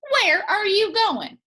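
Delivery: high, loud calling snake. Acted. Water snake calling out to Granny, high and loud. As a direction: sing out high like a sly snake. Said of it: "it said".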